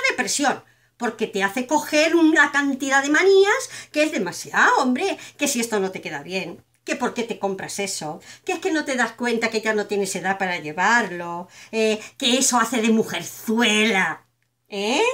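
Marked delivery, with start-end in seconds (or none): 4.8-15.0 nagging mother. Retold or imitated. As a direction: mimic a disapproving mother scolding her daughter. Mother's nagging voiced in monologue.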